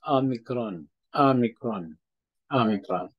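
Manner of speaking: omicron with a first vowel between A and O; omicron, vowel halfway a and o. Shown as a demonstration. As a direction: blend the A and O in omicron. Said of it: "Medyo nag-aagaw ang A at saka yung O".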